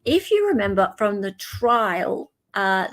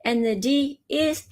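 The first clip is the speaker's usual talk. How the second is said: imitating Gypsy Rose; 8 semitones higher than usual. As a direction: tease her catchphrase in a sing-song. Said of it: "I always like the way, like, she says".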